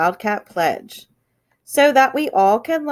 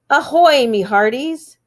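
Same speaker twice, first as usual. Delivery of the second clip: pirate voice; 3 semitones higher than usual. Pretend. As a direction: call it out like a ship's captain. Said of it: "Talk Like a Pirate Day".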